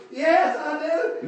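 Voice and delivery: slow, humble answer. Retold or imitated. Preacher answering the angry man humbly, slow. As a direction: answer him meekly and slowly. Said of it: "I said in very humble words".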